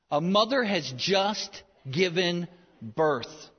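slow and tender, drawing the scene out. Shown as a demonstration. Preacher painting a birth for mothers, slow and tender. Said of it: "feel them emotionally".

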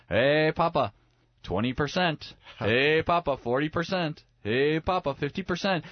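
lightly voiced child calling out updates. Son calls progress updates to father.

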